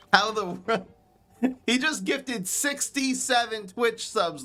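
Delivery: delighted shout-out. Real, not acted. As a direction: laugh it out in happy surprise. Thanking gifted subs, laughing.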